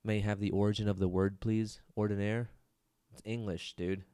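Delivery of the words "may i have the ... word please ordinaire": put-on spelling bee kid. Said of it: "I feel like I'm at a spelling bee".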